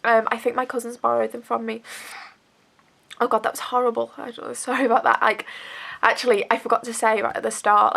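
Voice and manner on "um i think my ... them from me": stuffy nose from a cold; bunged up with a cold; blocked nose. Real, not acted. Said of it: "I've got a bit of a cold, so, like, I'm a bit bunged".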